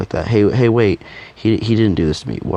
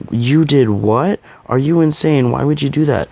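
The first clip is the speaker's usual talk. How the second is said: shocked disbelief; 7 semitones higher, 4 dB louder than usual. Acted. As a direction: blurt it out, appalled at the cousin's recklessness. Cousin shocked by reckless confession.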